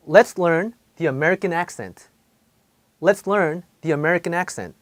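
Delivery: Let's learn the American accent, each word drawn out slowly in American English; slow American accent demo. Shown as a demonstration. Teacher models the sentence slowly for Korean students. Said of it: "이 첫 번째 문장을 예를 볼게요".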